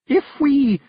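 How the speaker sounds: high, loud Scots threat; growled threat. A narrator's reading. Passenger threatening the carter with a hiding, angry high Scots. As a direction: threaten in an angry Scottish brogue. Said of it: "growled the passenger".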